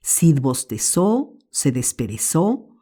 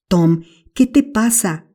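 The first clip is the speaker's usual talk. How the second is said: breathless; 5 semitones higher than usual. Acted. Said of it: "dijo sin aliento".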